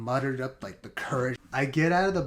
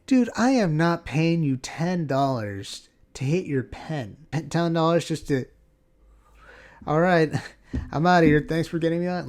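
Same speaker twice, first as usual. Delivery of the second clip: indignant; 4 semitones higher, 7 dB louder than usual. Retold or imitated. Indignant refusal, laughing.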